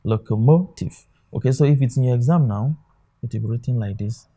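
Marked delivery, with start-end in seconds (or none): 0.0-1.1 locomotive with the weight on MO; stress on third syllable. Shown as a demonstration. Teacher repeating locomotive for students, stress on the third syllable MO. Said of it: "the stress is on the third syllable".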